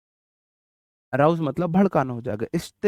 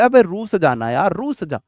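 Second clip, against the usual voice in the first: mock taunting; 3 semitones higher, 4 dB louder than usual. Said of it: "आप बोल रहे हो किसी को रुसाने के लिए".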